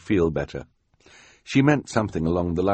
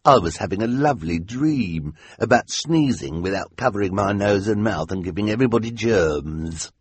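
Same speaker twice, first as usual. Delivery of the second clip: whiny henchman; 4 semitones higher, 4 dB louder than usual. Acted. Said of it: "the whiny voice of the hook-handed man".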